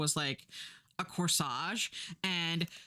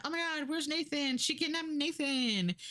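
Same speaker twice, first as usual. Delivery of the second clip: higher, breathless news alarm; higher mock newscaster panic; frantic news; 9 semitones higher than usual. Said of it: "all the news is like".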